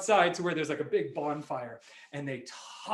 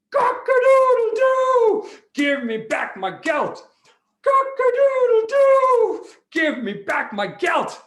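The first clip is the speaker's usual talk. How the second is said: high, loud crow with long drawn-out vowels; crowing rooster; 13 dB louder, slower than usual. Acted. Rooster to King Antiochus demanding its gelt, crowing loudly.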